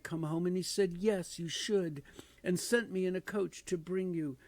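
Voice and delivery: put-on a small girl spilling good news; gleeful child. Little Fan telling her brother about going home, gleeful. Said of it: "brimming with glee".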